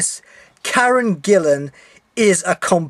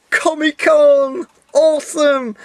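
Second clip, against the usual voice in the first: excited cheer; 8 semitones higher, 4 dB louder, slower than usual. Real, not acted. Excited cheer about the convention.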